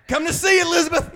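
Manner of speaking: high, loud, hammed-up call; Fred Sanford. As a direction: cry out in mock drama. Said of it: "like old Fred Sanford used to say".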